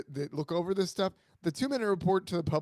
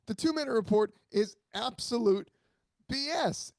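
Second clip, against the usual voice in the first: ranting; 3 semitones higher than usual. Real, not acted. Co-host venting about the NBA two-minute report, indignant rant. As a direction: vent emphatically, pausing before the big words. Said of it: "go off on a rant".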